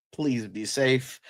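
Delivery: slow Southern drawl; drawn-out, accidental Southern twang; Southern accent. Real, not acted. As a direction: slip briefly into a Southern accent. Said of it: "I had a Southern accent right there".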